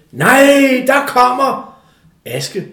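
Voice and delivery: loud, high, hammed-up greeting; imitating delighted ladies. Post office ladies greeting the arriving boy, imitated excited cry. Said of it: "rejser damerne sig op og siger".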